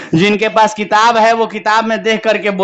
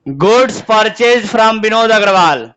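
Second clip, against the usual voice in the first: 'Goods purchase from Vinod Agarwal' repeated even slower, each word spaced; much slower than usual. Shown as a demonstration. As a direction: say it again, slower, prompting an answer. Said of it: "answer बताओ question का".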